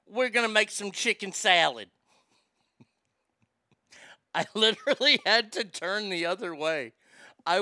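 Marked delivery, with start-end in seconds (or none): 0.1-1.9 imitated Southern lady. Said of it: "She goes".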